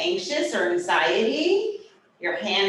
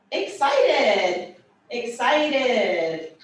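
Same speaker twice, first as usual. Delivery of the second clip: bright raised excited voice; excited, laughing; 2 semitones higher, much slower than usual. Shown as a demonstration. ASL teacher showing students the sign for excited, excitedly. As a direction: show the sign with real delight. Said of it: "touch your chest".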